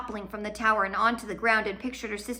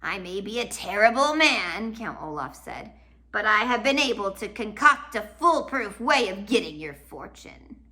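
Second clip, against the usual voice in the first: smug villain. Acted. Olaf smug retort.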